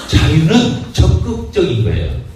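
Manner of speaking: 적극적인 slow and weighty, falling; preacher models 적극적인 firmly; stress on 적극적인. Shown as a demonstration. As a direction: lean on 적극적인 for the congregation. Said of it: "따라합시다".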